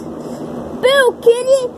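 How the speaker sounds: loud high boo at the cat; spring out to spook the kitty; startling boo. Pretend. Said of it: "She's scared of my voice".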